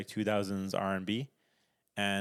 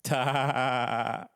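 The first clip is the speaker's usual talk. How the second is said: A rapper's laugh. Retold or imitated. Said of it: "Wiz Khalifa's laugh".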